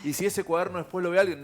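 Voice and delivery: high mock-worried question; hammed-up fretting; imitating worried patient. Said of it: "la gente tiene miedo".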